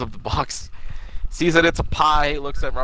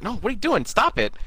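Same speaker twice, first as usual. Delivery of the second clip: higher-pitched acted-out objection; retold alarm, pitched up; mock protest; 9 semitones higher than usual. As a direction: protest in a raised pitch, imitating him. Voicing a character's alarmed protest.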